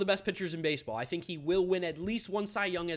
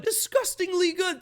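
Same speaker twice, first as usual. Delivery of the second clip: higher, slow and drawn out; raving; 10 semitones higher, 5 dB louder than usual. Real, not acted. Fan gushing over the infield, drawn-out awe. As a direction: savour every syllable in awe.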